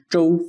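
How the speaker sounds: "zhou" high and level; "zhou" in Mandarin tone one, high and even; first tone. Shown as a demonstration. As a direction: keep "zhou" up high without falling. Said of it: "first tone".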